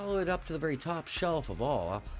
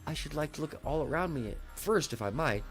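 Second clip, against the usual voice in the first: gentle; 7 semitones higher than usual. Acted. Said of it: "Alice said very gently".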